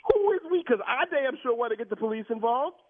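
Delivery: high, sharp angry repeats; indignant. Real, not acted. Car owner challenging the manager's "we", indignant. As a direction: demand an answer, furious.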